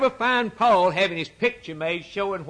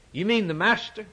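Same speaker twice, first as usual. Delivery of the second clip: incredulous; 5 semitones higher than usual. Acted. Voices an incredulous objector.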